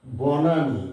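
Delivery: বনানী said with a clear open ব; teacher models বনানী slowly, stressing the ব start. Shown as a demonstration. Teacher showing beginners how বনানী starts. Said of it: "বি এ ব".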